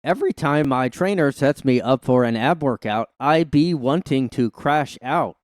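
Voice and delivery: stiff, unnatural slang example; forced slang read. Shown as a demonstration. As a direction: read it like an awkward ad. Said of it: "these never sound natural".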